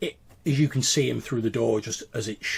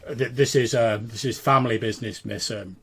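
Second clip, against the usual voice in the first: lightly stern servant; 4 dB louder than usual. Acted. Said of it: "he says".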